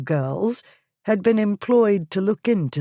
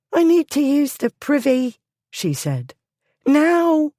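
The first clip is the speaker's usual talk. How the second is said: urgent demand; 10 semitones higher, 4 dB louder than usual. Acted. Polly urgently demands the privy.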